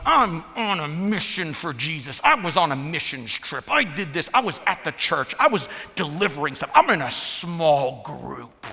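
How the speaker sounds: mock indignant list of pious credentials; self-righteous defence. Husband justifying himself with religious things, mock self-righteous. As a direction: puff up each claim in self-defence.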